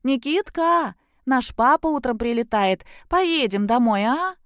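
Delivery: put-on high, sugary coaxing of a child; deliberately sweet. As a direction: lay on fake tenderness for the boy. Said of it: "она сказала нарочито ласково".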